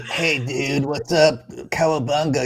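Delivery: lightly put-on American dude slang voice; Kenny. Retelling a friend's impression of Americans, mock American dude voice. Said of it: "I still miss Kenny's impression of Americans".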